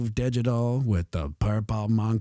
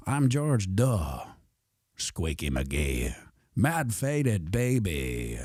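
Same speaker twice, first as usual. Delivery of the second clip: movie trailer voice; 3 semitones lower, slower than usual. Acted. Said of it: "all of it in the trailer voice".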